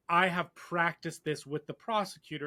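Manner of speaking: quick, mechanical recital; robotic voice. Retold or imitated. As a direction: rattle it off like a rehearsed witness. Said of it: "more robotic".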